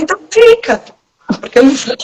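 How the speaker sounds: high, sharp, final "então fica"; firm refusal. Retold or imitated. Wife retelling her flat refusal to her husband, firm and high. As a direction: shut the request down with a snap. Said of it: "Eu falei".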